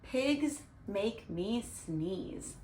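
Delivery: slow, drawn-out title; slow title read. Shown as a demonstration. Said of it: "one of my favorite books called".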